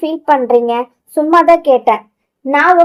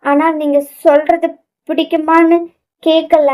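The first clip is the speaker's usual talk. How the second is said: stammering; 4 semitones higher than usual. Acted. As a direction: trip over the words, flustered. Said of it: "திக்கி திணறி பேச".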